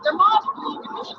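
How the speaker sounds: Irish accent. Shown as a demonstration. Demonstrating her accents to a sceptic, mock Irish accent. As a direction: have a go at an Irish catchphrase.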